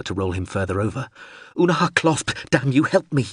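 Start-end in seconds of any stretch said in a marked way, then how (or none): 1.6-3.3 shouting. Acted. Calling the drone for help.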